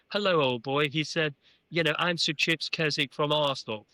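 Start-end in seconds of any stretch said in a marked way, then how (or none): 0.1-0.9 very English gentleman voice; Sir Chips Keswick. Retold or imitated. Football chairman greeting a newcomer, very English gentleman voice. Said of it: "spoke in a very English gentleman voice". 2.0-3.8 lightly imitated English gentleman accent; Sir Chips Keswick. Arsenal chairman introducing himself, very English gentleman voice. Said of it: "spoke in a very English gentleman voice".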